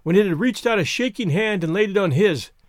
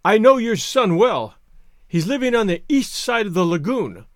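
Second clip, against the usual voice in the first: disguised voice; 3 semitones higher than usual. Acted. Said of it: "striving to disguise his voice".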